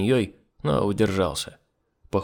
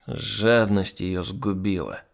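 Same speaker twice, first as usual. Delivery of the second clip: put-on drunk mumbling; 2 semitones lower, much slower than usual. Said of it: "бубнил Сергей".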